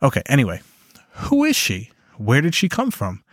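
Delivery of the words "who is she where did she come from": suspicious husband. Acted. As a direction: press for an answer, uneasy. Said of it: "he asked".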